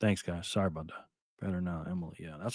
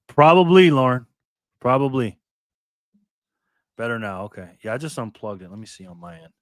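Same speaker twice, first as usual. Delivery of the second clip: muffled, bubbly line sound; underwater; 3 semitones lower, 4 dB louder than usual. Real, not acted. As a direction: voice as if under water. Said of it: "Sounds like you're underwater".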